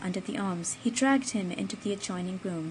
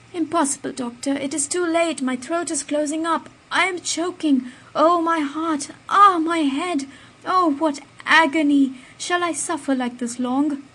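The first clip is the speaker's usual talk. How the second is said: higher, louder strangled cries of pain; dying man, higher and louder; agonised choking; 7 semitones higher, 7 dB louder than usual. A narrator's reading. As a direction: gasp through the poison's agony. Poisoned man choking in agony.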